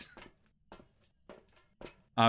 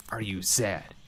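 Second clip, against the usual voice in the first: ordinary delivery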